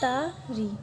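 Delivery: "तारी" split into ता and री; syllable by syllable. Shown as a demonstration. Teacher shows students both syllables of "तारी", syllable by syllable. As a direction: say "तारी" as two separate syllables. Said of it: "first syllable, second syllable".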